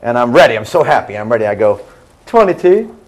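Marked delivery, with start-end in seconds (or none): 2.2-3.0 high, lilting Southern twang; Jimmy Carter-style Southern drawl; southern accent. Retold or imitated. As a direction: answer in a put-on Southern accent, pitched up and questioning. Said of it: "I gave him a southern accent".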